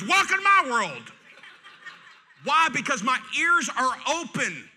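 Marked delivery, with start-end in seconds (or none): 0.0-1.1 higher, louder dry quip from the wife; wife's sarcastic reply. Retold or imitated. Wife teasing husband about the TV, high sarcastic quip. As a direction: toss it back like a weary wife. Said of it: "And Jennifer goes".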